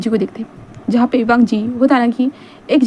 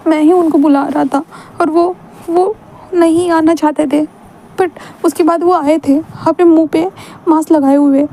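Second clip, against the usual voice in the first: put-on young Wing, pleading; 4 semitones higher than usual. Narrator voices Wing confessing to mother.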